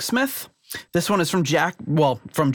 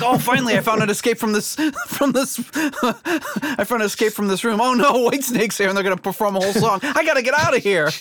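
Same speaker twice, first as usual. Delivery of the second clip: hammed-up trapped victim, laughing through; panicked escapee; 8 semitones higher than usual. Trapped person escaping a band's show.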